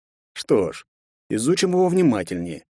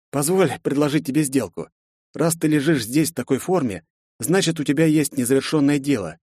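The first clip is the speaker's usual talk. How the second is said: near death weak; 3 semitones higher than usual. Acted. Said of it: "Из последних сил хрипел я".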